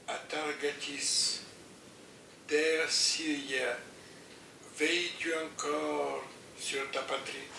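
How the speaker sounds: poem recitation. Acted.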